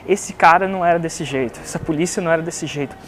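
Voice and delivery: ordinary talk, nothing marked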